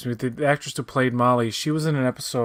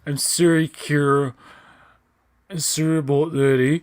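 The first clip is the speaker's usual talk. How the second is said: mock Canadian accent; 2 semitones higher than usual. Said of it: "She's definitely Canadian".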